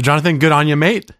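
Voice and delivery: hammed-up Australian twang, rising high on mate; fake Australian accent. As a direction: play a mock Aussie mate giving a cheer. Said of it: "my fake Australian accent".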